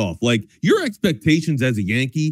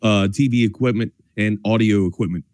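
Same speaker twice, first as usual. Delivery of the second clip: casual radio sponsor plug; conversational sales read; live ad read. Acted. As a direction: pitch the sponsor like a chatty sports host.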